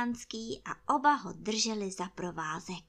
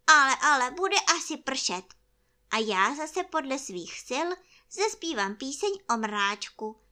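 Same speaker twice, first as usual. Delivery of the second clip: lightly raised bear voice; directing toy bear; 4 semitones higher, 6 dB louder than usual. Acted. Bear directs friend's umbrella walk, lively raised voice. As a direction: give instructions, ending in a high loud send-off. Pooh gives his friend orders.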